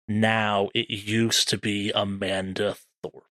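descriptive horror storytelling; game master narration. Acted. Game master reveals who the creature was, ominous narration. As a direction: settle into a slow, grave reveal.

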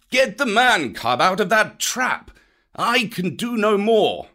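high, breathless panther voice; gasping Bagheera. A narrator's reading. Bagheera, exhausted, gasping to Baloo for help. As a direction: gasp it out, spent from the fight. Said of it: "Bagheera gasped".

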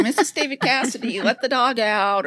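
badly faked New York accent, mild mock yell. New York mom yelling for her daughter, jokey weak accent. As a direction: imitate a New York mom hollering, half-hearted. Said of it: "you know, yelling".

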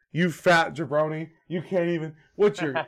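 cocky trash-talking wrestler; lightly voiced arrogant promo; The Rock wrestling promo. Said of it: "he's cutting a promo on every single member".

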